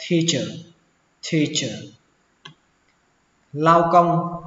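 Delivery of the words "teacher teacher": "teacher" opening on a breathy "th" puff of T; aspirated T. Shown as a demonstration. Teacher shows learners the word, aspirated T in "teacher". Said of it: "phát âm là thờ".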